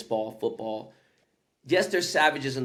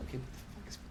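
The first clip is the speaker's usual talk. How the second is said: laughing disbelief; 4 semitones higher, much faster than usual. Retold or imitated. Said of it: "I was like".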